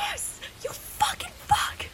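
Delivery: screeching howler message; howler yell. Pretend. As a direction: shriek it like a howler. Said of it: "Make it like a howler".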